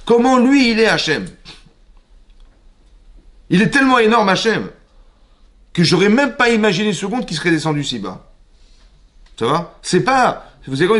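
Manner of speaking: high, stunned wonder at being noticed; a believer overwhelmed that God would care for him; awed disbelief. Acted. Voices his own awe at God.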